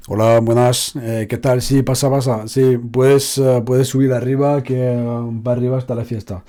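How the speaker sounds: easy Castilian Spanish from Spain, relaxed; Spanish accent. Shown as a demonstration. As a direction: play a casual host from Barcelona. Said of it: "on va le faire avec l'accent espagnol classique".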